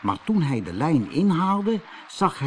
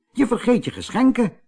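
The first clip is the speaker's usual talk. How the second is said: high, bright-eyed little mountain man; high little gnome voice, proud of his big day; cheerful little man; 10 semitones higher, 3 dB louder than usual. A narrator's reading. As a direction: play the tiny man, pleased and chatty. Little man reminds Peter.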